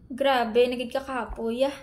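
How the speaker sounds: worn-out surrender; exhausted, giving up. Shown as a demonstration. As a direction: sigh it out like you've given up. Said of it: "sukong-suko ka na talaga dahil pagod".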